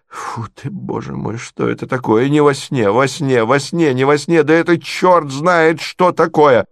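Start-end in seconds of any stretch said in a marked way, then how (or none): none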